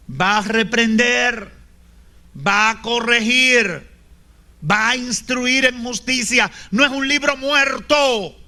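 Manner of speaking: normal talking voice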